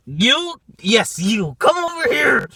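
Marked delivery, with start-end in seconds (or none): 1.6-2.5 calling out. Real, not acted. Calling out to a target.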